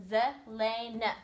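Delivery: "Zelena" slowly in three beats; split into syllables. Shown as a demonstration. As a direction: separate ze, lay, na in "Zelena". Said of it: "There's her three word parts".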